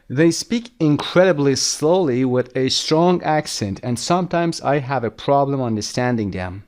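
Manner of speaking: very slow, deliberate English read-aloud; measured dictation pace; slow lesson reading. Shown as a demonstration. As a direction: read it out slowly for language learners. Reads lesson text aloud.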